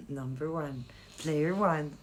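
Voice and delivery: playful American accent; accent américain. Shown as a demonstration. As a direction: say it American-style. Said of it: "À l'américaine". (à l'américaine)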